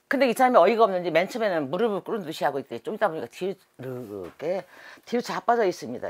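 ordinary talk

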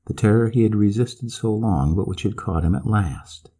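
plain reading voice

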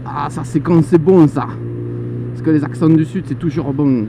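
playful accent du Midi; lilting southern France accent, relishing it; southern French accent. Shown as a demonstration. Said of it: "je prends un petit accent du sud".

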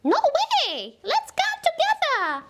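high, playful disbelief; mock surprise. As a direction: pretend to be amazed for a child.

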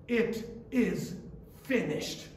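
"It is ... finished" said softly, with a pause before "finished"; quiet. Acted. Preacher echoing the cry softly to the congregation.

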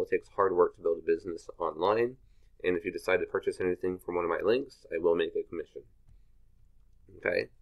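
talking with a retainer in; slightly slurred with a retainer in; wearing a retainer. Real, not acted. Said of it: "I have my retainer in right now, so I might be talking weird".

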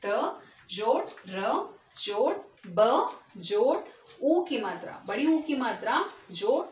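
जोड़ प जोड़ र, syllable by syllable, slowly; slow spelling out. Shown as a demonstration. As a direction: spell each sound slowly for children. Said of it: "तरबूज को हम कैसे split करते हैं".

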